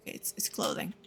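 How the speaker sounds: relieved whisper after a fright. Real, not acted. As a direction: breathe it out, barely voiced.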